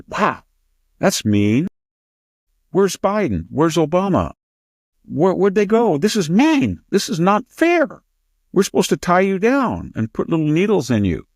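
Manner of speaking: high, plaintive mock outcry; hammed-up wail of aggrieved small fry; whiny protesters. Lilliputians protesting to the giant who got up, mock aggrieved.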